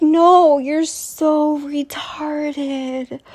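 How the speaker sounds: laugh-crying. Real, not acted. Laughing-crying reaction to people.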